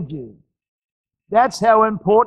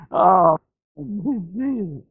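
crying out; 2 semitones lower, much slower than usual. Real, not acted. Overcome, crying out.

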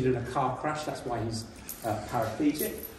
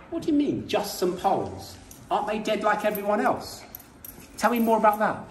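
sharp, incredulous challenge, voice jumping up on you; indignant disbelief; 5 semitones higher than usual. Retold or imitated. Journalist demanding to know why the dead are dismissed, in shocked disbelief. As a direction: ask it as if you can't believe what you heard.

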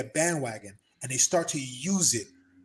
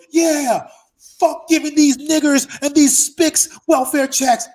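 mock racist ranter; 11 semitones higher, 12 dB louder, slower than usual. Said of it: "the guy next to him goes".

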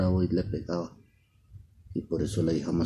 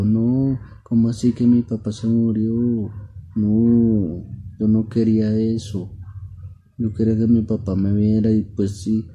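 high, loud protest easing toward the end; acted wail of disbelief and regret, without real tears; distraught daughter; 5 semitones higher, 8 dB louder than usual. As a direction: lament it like a child refusing bad news. Daughter learns her father died.

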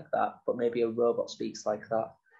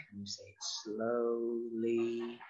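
"Can you say it slowly?" drawn out at half speed and softer; 8 dB quieter, much slower than usual. Shown as a demonstration. Teacher showing children a slow voice. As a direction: stretch every word long. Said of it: "saying words in different ways".

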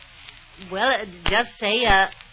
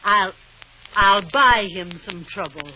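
vengeful vow; 2 semitones higher, 8 dB louder than usual. Acted. Wife vows revenge.

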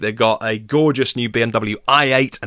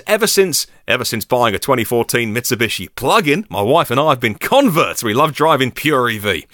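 mock Australian accent. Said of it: "I've got to stop this accent".

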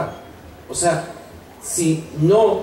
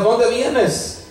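grito imitado; 6 semitones higher than usual. Retold or imitated. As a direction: imitate calling back to a cub without real volume. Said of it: "le empieza a gritar". (grito imitado, sin fuerza)

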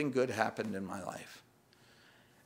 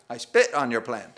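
louder line through a laugh; God's mock dismissal, louder and laughing; 7 dB louder than usual. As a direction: deliver God's retort while laughing. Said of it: "And God says".

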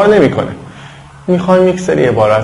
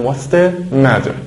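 American accent; much slower than usual. Shown as a demonstration. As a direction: say 'matter' like 'madder', American style. (با لهجهٔ امریکن، t در matter نرم مثل d)

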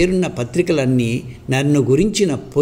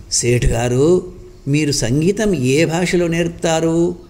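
eager asking; 4 semitones higher than usual. Acted. A labourer eagerly asks the teacher to teach him music, mildly eager. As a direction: ask with mild eagerness. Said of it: "ఆత్రంగా అడిగాడు భీముడు".

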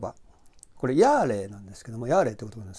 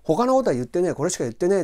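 blunt denial; 4 semitones higher, 4 dB louder, faster than usual. Shown as a demonstration. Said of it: "これブロックロジックでもあるんですね".

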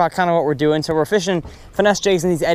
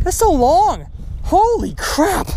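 awed; 11 semitones higher, much slower than usual. Real, not acted. Excited over big fish.

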